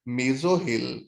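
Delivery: Mesohyl said carefully as mee-zo-hil; correct pronunciation. Shown as a demonstration. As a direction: Mesohyl with a short final "i". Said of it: "आई sound देंगे".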